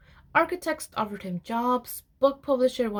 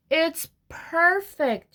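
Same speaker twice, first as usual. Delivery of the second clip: slow, sighing and higher, dreamy; contented sigh; 6 semitones higher, much slower than usual. A narrator's reading. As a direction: breathe it out slowly like a happy sigh. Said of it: "she sighed".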